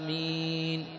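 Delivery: آمين clipped quiet, alif dropped; wrong amen. Shown as a demonstration. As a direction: say آمين short as a mistake. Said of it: "هذا خطأ". (آمين خاطئة بلا مد)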